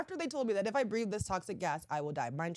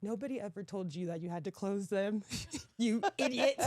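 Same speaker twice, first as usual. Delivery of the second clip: mock British scolding; 3 semitones higher than usual. Staff officer answering contestant, British accent scolding. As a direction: lightly imitate an exasperated British officer. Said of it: "that's my British accent".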